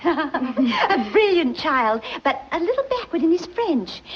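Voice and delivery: slow, embarrassed laugh through the words. Acted. Mother covering for her son's poor French, laughing. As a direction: laugh it off to cover the boy's blunder.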